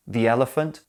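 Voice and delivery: "the" said "thee" before "elephant"; long ee in "the", linking into "elephant"; "thee" before vowel. Shown as a demonstration. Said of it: "Match the correct sound to the first letter".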